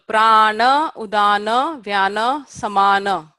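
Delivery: long vowels in "Prana, udana, vyana" against the shorter ones in "samana"; Sanskrit vowel lengths. Shown as a demonstration. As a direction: drill the list evenly. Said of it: "this is all one syllable".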